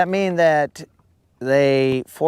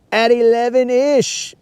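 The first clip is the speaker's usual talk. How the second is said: excited; 8 semitones higher, 3 dB louder than usual. Real, not acted.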